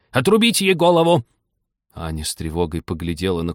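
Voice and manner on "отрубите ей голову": высоко и громко рявкает приказ; рявкни, требуя казни; рявкнула. A narrator's reading. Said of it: "рявкнула герцогиня". (герцогиня рявкает приказ отрубить Ане голову)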